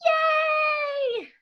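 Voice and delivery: high, thrilled yay; bursting childish cheer; delighted squeal. Acted. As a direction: squeal with sudden kid joy. Kid told yes to bear.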